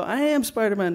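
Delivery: insistent Spider-Man. Retold or imitated. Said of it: "I go".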